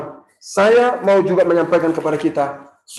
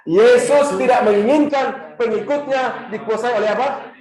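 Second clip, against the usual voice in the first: "apa" asked rising, a bit slower, to cue the crowd; slow fill-in question; 2 semitones higher, 4 dB louder than usual. Shown as a demonstration. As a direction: draw out the line and let "apa?" rise for the answer. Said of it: "mengajak kita mengucapkan sekali lagi".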